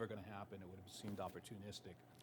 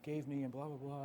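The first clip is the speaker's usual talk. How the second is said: higher, louder imitated caller; a singer; 6 semitones higher, 5 dB louder than usual. Singer tells guitarist about the tape, higher imitated voice. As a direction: raise the voice into a mock phone patter. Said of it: "he starts talking, and he says".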